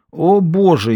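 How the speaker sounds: usual speaking voice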